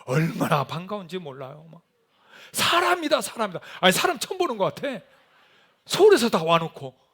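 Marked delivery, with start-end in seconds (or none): 2.5-5.0 excited cry. Retold or imitated. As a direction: call it out thrilled to finally see someone. Team spotting a person. (사람을 보고 반가워 외치는 목소리)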